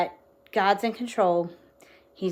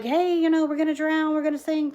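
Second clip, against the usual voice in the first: higher-pitched mock alarm; mildly acted panic, pitched up; retold panic; 7 semitones higher than usual. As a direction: imitate worried people raising the alarm. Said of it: "they're panicking and overwhelmed".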